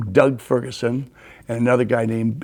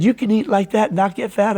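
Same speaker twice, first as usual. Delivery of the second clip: much higher, disbelieving question; incredulous; 8 semitones higher than usual. Retold or imitated. Coach questioning the big eater, incredulous. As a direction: retell his amazement with lifted pitch. Coach amazed at his appetite.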